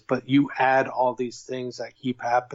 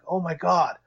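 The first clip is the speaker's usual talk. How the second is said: higher, stunned what the fuck; shocked disbelief; 6 semitones higher than usual. Retold or imitated. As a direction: react in shock.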